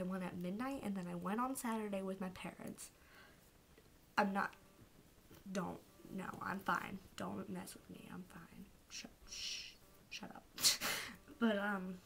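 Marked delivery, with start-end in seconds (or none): 4.2-10.4 soft, fading denial with a laugh; fighting tears. Real, not acted. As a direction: hush them while holding back tears. Choked up, brushing off tears.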